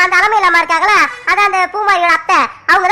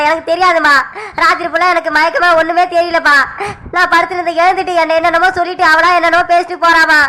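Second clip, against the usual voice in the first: remorseful son Sakthi; 2 semitones lower than usual. Acted. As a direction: confess to your mother in a lowered voice.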